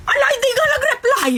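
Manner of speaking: high, loud exasperated cry; exasperated outburst. Retold or imitated. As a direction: throw up your hands in outrage. The seller ignoring her threat.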